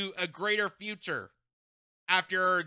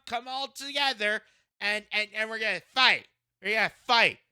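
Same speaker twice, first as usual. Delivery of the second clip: whiny schoolyard mockery, pitched up; childish mock impression; 2 semitones higher than usual. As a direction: taunt her like a sulky kid. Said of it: "In the most childish way possible".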